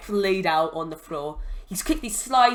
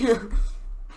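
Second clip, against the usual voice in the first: brief unvoiced chuckle; small laugh after a big shout; short laugh; 2 semitones higher than usual. Real, not acted. Narrator amused by own shouting, short laugh.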